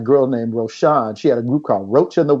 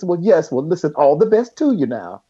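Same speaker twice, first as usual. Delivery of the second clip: a singer impression; 4 semitones higher than usual. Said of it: "like your grandmother just, like, giving it to you".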